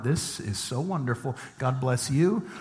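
soft, serenely smug murmur; blissful relief. Acted. Childfree shopper watching others' meltdowns, softly blissful. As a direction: quietly savor being off the hook.

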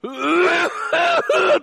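loud exaggerated cough, hoarse and strained; dramatic wet cough; hammed-up hacking cough. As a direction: cough it out big like a sick guest. Sick guest coughing.

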